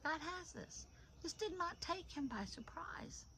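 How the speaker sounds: lightly imitated husband, softly reassuring; hushed assurance. Husband reassuring wife about their bills, hushed assurance. Voicing husband's unworried faith.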